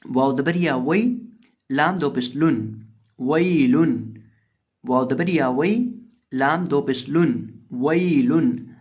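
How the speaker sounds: slow spelled-out recitation, letter by letter, then the joined word वईलुन; teacher spelling वाव दबर या वई for pupils, then वईलुन joined; Quranic spelling drill. Shown as a demonstration. Teacher drills pupils, slow letter-by-letter recitation. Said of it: "अब यहाँ वाव को हम लंबा नहीं करेंगे".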